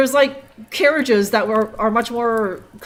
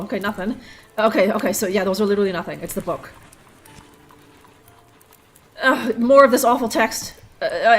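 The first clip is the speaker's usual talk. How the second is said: ordinary delivery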